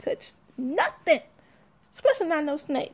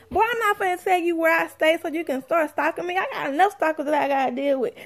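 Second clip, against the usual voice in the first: sassy retort; 3 semitones higher, 4 dB louder than usual. Retold or imitated. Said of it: "That's what I wanted to say".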